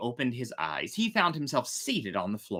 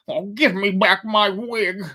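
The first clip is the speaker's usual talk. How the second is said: mild mock scream; 8 semitones higher, 7 dB louder than usual. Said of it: "screamed Master Cherry".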